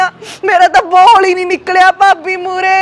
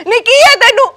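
heated quarrel; 2 semitones higher than usual. Acted. Sister snaps at her sister-in-law for interrupting the call. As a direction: snap back at her, rushing the words.

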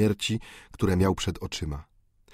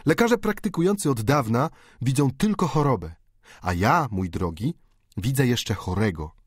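put-on a sharply higher, unoffended young medic; student answering his friend's jibe; Bianchon's voice; 4 semitones higher than usual. Bianchon explains. (wyraźnie wyższy głos młodego medyka, bez urazy)

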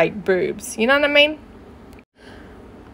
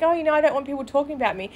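fast mocking Crystal; 4 semitones higher, 5 dB quieter, much faster than usual. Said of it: "And then she's like".

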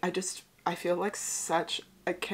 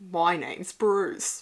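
slow, drawn-out self-introduction; lightly put-on slow character greeting; mimicking a film character; 4 dB louder, much slower than usual. Echoes the film shark's introduction.

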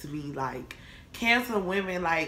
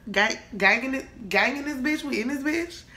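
higher, rising hype questions; hype Leo entrance; 6 semitones higher than usual. Pretend. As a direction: pump up the Leo gang.

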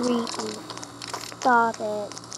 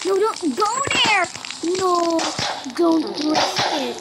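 urgent warning; 3 semitones higher than usual. Real, not acted. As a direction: cry out to stop the character. Warning the game character.

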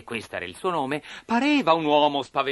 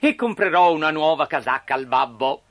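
higher, louder, eager puppet daydream; dreamy enthusiasm; 5 semitones higher, 6 dB louder than usual. A narrator's reading. Pinocchio daydreaming on his way to school, eagerly fantasizing. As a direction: build big plans with growing excitement. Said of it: "strada facendo fantasticava".

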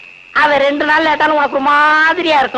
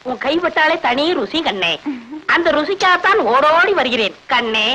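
mock royal lover. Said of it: "நீயே ராஜபரம்பரை".

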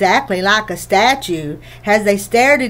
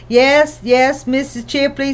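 a touch of clipped impatience, lightly voiced; mildly impatient aunt cutting the visitor short; 4 semitones higher than usual. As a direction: hurry the old woman along, mildly impatient. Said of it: "sounding impatient".

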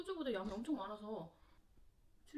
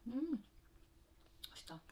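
mumbled around a bite; talking while chewing; 2 semitones higher than usual. Real, not acted. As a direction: mouth partly full of food. Seen 0: Spoon enters mouth at -1; cheeks and lips show chewing through the words.

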